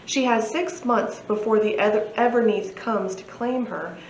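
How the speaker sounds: lightly dramatic book-blurb reading; measured narration with a touch of drama; synopsis read-aloud. Acted. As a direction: read the blurb like a storyteller, clearly and evenly.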